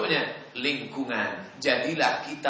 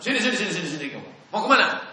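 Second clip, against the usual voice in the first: calling out; 6 semitones higher, 3 dB louder, much faster than usual. Retold or imitated. Memanggil anak orang di jalan.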